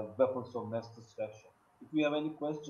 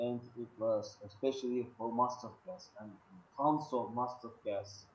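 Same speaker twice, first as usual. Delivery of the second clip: usual speaking voice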